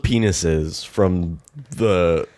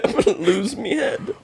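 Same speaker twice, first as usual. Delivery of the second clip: high cockney voice; 14 semitones higher than usual. Acted. Echoes the bit.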